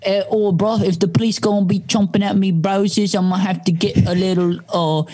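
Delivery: British rapper. Pretend. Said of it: "Can I do my British rapper impression?".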